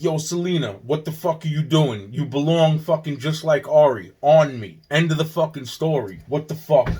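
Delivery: loud, hammed-up yelling at Selena; angry confrontation. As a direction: shout her down, end of story. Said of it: "It's like".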